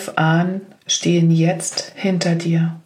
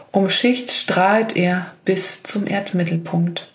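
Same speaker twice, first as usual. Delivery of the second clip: whispering. Acted. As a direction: whisper "um Schicht" with no voice. Repeated phrase, whispered take.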